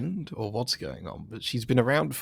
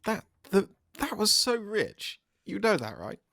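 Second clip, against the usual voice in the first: amused; 11 semitones higher, slower than usual. Real, not acted. Amused jab at teammate's line.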